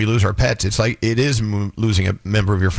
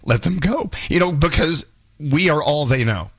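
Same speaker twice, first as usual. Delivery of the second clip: emotional; 4 semitones higher than usual. Real, not acted. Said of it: "I got so emotional".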